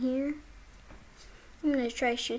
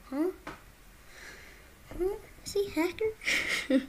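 shocked; 9 semitones higher than usual. Real, not acted. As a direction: cry out in shock. Shot through wall, shocked.

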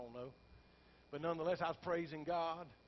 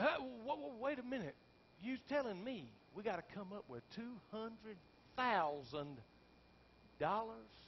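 stunned disbelief; 5 semitones higher than usual. Retold or imitated. Pastor stunned by bank shortfall.

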